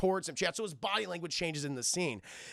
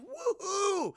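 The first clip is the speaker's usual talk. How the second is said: high, drawn-out whoop; gleeful cheer; 13 semitones higher than usual. Acted. Kids having a blast in the arcade, gleeful high cheer. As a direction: let out a long high whoop of youthful fun.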